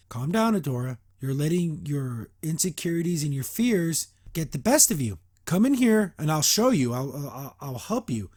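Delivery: calm, coaxing mentor, lightly voiced; retold soothing advice, softening toward the end; Shadow Weaver, calm. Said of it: "Shadow Weaver being very, uh, calm".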